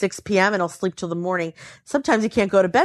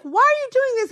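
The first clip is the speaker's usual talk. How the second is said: much higher, half crying with laughter; laughing exasperation. Retold or imitated. Wife asking husband about the bong, much higher and teary with laughter. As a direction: plead through laughter.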